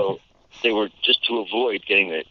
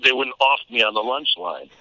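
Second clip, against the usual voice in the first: put-on slightly raised nasal New York kid; 5 semitones higher than usual. Shown as a demonstration. Kid staying safe on the lunch line, nasal New York. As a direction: keep up the nasal street-kid twang. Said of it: "I was talking like this".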